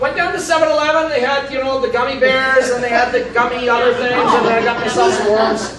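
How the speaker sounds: put-on Texan Irish accent. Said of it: "my Texan Irish accent".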